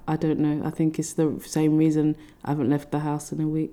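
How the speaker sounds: breathy whispered confession; whispering. Real, not acted. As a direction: drop to a whisper. Confessing quietly to friend.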